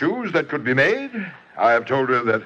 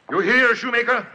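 threatening; 10 semitones higher than usual. Acted. Count threatens the shoemaker.

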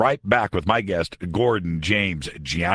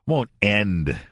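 pointed, mildly sarcastic repeat; sarcastic air quotes. Shown as a demonstration. Host repeating the prophet's claim for listeners, sarcastic air quotes. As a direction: set END apart as if in air quotes. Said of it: "Can you feel the sarcasm?".

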